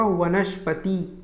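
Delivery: वनस्पति spoken very slowly, every syllable clear; slow correct pronunciation. Shown as a demonstration. Teacher to students, slow careful pronunciation. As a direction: draw out वनस्पति for the class. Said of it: "वनस्पति का क्या होगा".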